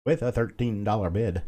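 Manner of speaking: rolling auctioneer call of the bid. Shown as a demonstration. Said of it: "you sound like an auctioneer".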